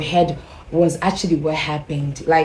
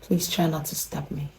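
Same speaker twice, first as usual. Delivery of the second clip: very soft, hushed request; neighbor impersonation; 9 dB quieter than usual. Retold or imitated. Neighbor leaning over her visitor, hushed request. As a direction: quietly act out the neighbor. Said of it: "as if I'm my female neighbor".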